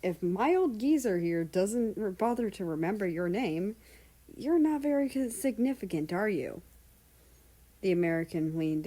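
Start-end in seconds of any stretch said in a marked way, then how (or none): 0.0-6.6 sneering royal voice, lifted; condescending king. Acted. King belittles the American with a sneer. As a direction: look down your nose at him.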